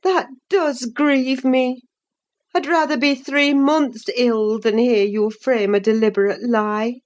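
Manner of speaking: a hint of a grieving nurse reproaching Catherine; sorrowful. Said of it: "I cried sorrowfully".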